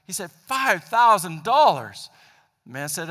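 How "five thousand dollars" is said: slow, louder incredulous echo of the price; shocked disbelief. Retold or imitated. Buyer repeating the dealer's price, stunned and slow. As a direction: stretch it out like you can't believe the number.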